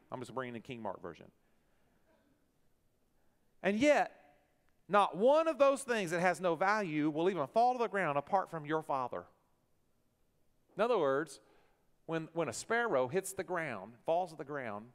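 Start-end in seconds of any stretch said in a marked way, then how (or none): 3.6-9.2 louder, driving the point home; preacher to congregation, building to a loud point; preaching loud. Real, not acted.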